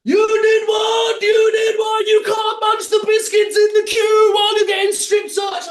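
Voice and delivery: high, loud, sing-song disbelieving shout, slowing on the first words; mock outraged guard. Searcher outraged that he ate the biscuits, high sing-song mock shout. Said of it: "Just sitting there".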